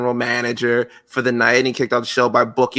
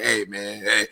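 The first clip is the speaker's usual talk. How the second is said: lightly imitated wrestler voice, pitched lower; a hint of a wrestler impression, lower; Booker T; 3 semitones lower than usual. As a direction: drop it lower, mimicking a wrestler. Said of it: "He sound like Booker T".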